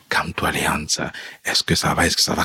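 the bearded chapel keeper gently calming him; calming words. Retold or imitated. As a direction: soothe a shaking man quietly. Chapel keeper calms weeping man.

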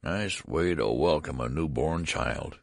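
put-on slow, weak old man's complaint; slow mild complaint from a frail old man; weak complaining voice. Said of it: "he complained in a weak voice".

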